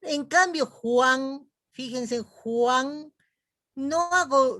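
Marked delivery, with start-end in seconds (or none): 0.7-1.5 Juan en una sílaba, con la fuerza en la a; u breve y a fuerte en Juan; diptongo, énfasis en A. Shown as a demonstration. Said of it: "sino en la A". 2.2-3.1 Juan alargando la a, con u breve; diptongo, énfasis en A. Shown as a demonstration. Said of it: "sino en la A".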